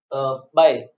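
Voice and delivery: "uh, bay" split, with "bay" stronger; second-syllable stress. Shown as a demonstration. Teacher breaking the word up, "bay" stressed after a light "uh". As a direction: hold back "uh", then punch "bay". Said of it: "The stress is on the second syllable".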